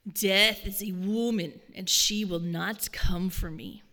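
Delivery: put-on slow, rough old man proclaiming; low rasp, each word weighed; deep gravelly voice. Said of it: "in a really deep and gravelly voice".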